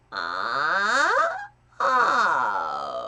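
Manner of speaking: tight nasal sound; nasal twang demo. Shown as a demonstration. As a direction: squeeze the sound into the nose. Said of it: "Can you do that full spectrum?".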